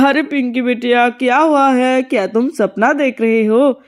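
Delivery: a lightly voiced dad asking if she's dreaming; father questioning his daughter; puzzled father.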